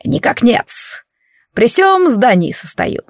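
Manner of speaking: slow, lightly voiced old doorman; a hint of an old servant; old prospector. (старый швейцар, медленно)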